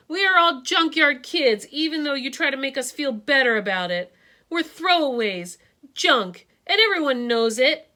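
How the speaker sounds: put-on a hurt kid insisting he's junk; boy telling his teacher they are all throwaways; boy's voice.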